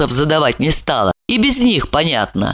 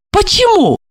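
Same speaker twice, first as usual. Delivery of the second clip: higher, pointed repeat; mocking repeat. A narrator's reading. Marina taunts Olga, higher mocking repeat. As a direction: toss it back higher, taunting.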